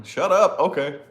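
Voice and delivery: loud, high mock shout; telling daughter to hush. Parent hushing daughter, loud high shout. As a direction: bark for silence at a chatty kid. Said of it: "you know?".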